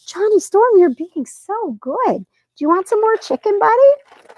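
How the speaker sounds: talking to a pet. Real, not acted. Owner praising her cat while offering chicken, high and loud.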